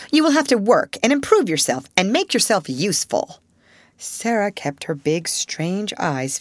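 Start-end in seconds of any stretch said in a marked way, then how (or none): 0.1-3.4 stern headmistress. Acted. Headmistress lays down new rules.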